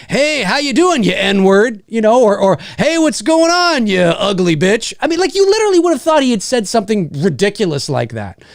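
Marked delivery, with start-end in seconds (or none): 0.1-1.8 imagined insult. Retold or imitated. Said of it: "Rock had said". 2.8-4.9 imagined insult. Retold or imitated. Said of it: "Rock had said".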